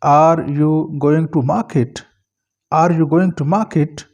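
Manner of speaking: "market" set off and emphasised at the end; careful question with the weight on "market"; stress on MARKET. Shown as a demonstration. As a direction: lean on "market" as the point of the question. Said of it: "अब मार्केट पर stress है".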